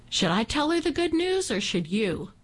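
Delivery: lightly voiced woman, a high teasing start; a hint of the woman springing good news; teasing helper woman.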